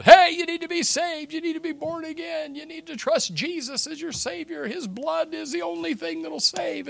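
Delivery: high, loud, calling-out angel preacher; preaching angel. Retold or imitated. Angel preaching to the whole world from the sky, proclaiming. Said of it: "I see this angel flying and just preaching the gospel".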